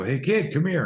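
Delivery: put-on high, loud teen bully calling a kid over; older bully beckoning a little kid. Teen bully calling a kid over, mock friendly call.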